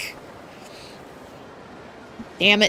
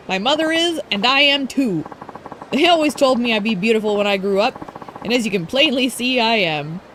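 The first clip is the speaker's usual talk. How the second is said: higher, preening idol voice; smug rival idol; 3 semitones higher than usual. Acted. Streamer voicing Ulala boasting to Haruka, smug and higher. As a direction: preen about your own beauty.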